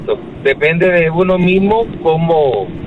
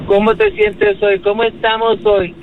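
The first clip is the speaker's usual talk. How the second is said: much higher, slow, sing-song nurse voice; mocking hospital staff; 6 semitones higher than usual. Mocking the hospital staff she hated, in a high, slow, sugary voice. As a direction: parody a sugary nurse checking on a patient. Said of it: "eso es una cosa que yo odié cuando yo estuve en el hospital".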